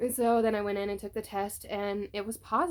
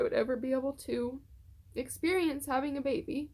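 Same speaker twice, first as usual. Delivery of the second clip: tearful; 3 semitones higher than usual. Real, not acted. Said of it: "now I'm gonna cry again".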